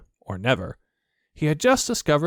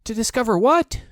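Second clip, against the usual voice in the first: high worried question; a small nervous squeak of a question; anxious; 11 semitones higher, 5 dB louder than usual. A narrator's reading. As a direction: Piglet fretting to Pooh, anxious. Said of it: "said Piglet anxiously".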